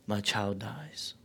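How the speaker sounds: slow unvoiced plea, come down before my child dies; the father begs Jesus in a whisper; pleading whisper. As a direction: beg him in a desperate whisper. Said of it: "he pleads".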